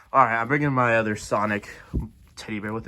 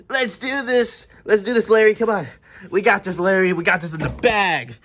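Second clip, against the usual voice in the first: loud, higher-pitched pep talk; pumped up; 7 semitones higher, 5 dB louder than usual. Acted. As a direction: psych up your buddy. Characters psych each other up.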